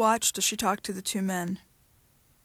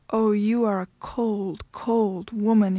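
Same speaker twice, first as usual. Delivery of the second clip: slow anguished cry; 3 dB louder, slower than usual. Acted. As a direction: voice breaking in despair. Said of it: "he cried".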